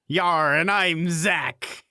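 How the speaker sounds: slow growly pirate drawl. Pretend. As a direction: ham it up like a pirate. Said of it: "Are you gonna talk like a pirate".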